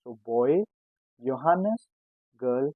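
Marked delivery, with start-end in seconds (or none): 1.2-1.9 Johannes as "yo-HAH-nes", pitched up; German pronunciation. Shown as a demonstration. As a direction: teach Johannes with y for its J. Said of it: "as Y".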